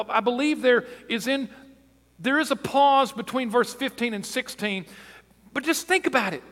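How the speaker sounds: high, loud, driving sermon delivery; impassioned preaching. Real, not acted. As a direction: press the question on the congregation at full force. Preacher builds to full force.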